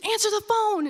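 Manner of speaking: high-pitched mock yell; mom's urgent order. Mom pushing daughter to answer, high insistent mock yell.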